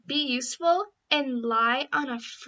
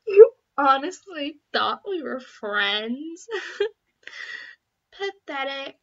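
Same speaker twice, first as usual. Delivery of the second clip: mocking sneer; 6 dB louder than usual. Mocking a fooled girl.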